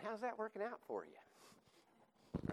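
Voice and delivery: lightly hammed Doctor Phil, drawn out. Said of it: "In the words of Doctor Phil".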